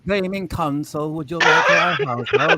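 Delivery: put-on terrible British accent. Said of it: "That is a terrible British accent".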